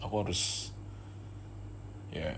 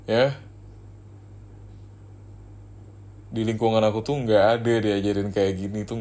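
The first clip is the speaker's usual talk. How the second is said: louder and louder scolding; irritated rant; 2 semitones higher, 6 dB louder than usual. Acted. Scolding the crying girlfriend about her tears, loud and irritated. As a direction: vent the frustration at her tears.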